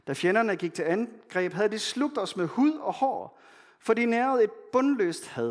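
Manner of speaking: measured, solemn reading of a psalm; scripture reading. Acted. Pastor reading a psalm to the congregation, solemn.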